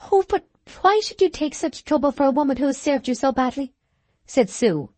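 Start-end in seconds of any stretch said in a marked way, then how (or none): 0.1-3.7 jealous burst. A narrator's reading. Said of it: "in a jealous burst of disappointment".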